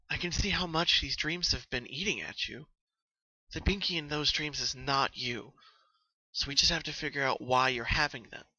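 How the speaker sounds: lightly voiced earnest young mare; Twilight, gently. Twilight reassuring her friend, lightly voiced.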